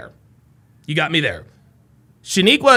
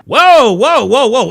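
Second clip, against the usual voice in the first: alarmed whoa; 3 semitones higher, 6 dB louder, slower than usual. Real, not acted. Streamer reacts to viewer comment.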